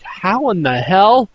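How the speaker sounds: slow, drawn-out baffled question; acted-out incredulous reaction; retold disbelief. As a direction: stretch it out in mock disbelief. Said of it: "I was going like".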